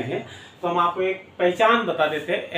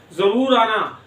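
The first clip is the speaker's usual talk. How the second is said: जरूर said firmly, falling; stress on जरूर; 3 semitones higher, 4 dB louder, slower than usual. Shown as a demonstration. Teacher inviting a guest: firm जरूर. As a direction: hit जरूर. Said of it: "जोर दे के बोले".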